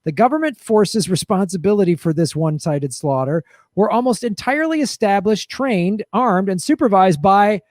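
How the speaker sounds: game show announcer reading out a grim list; punchy host voice, key names stretched. Acted. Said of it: "read about death squads in the game show voice".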